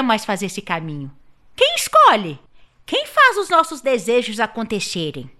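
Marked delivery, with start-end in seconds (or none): 1.6-5.3 emphatic question. Acted. Dramatic question.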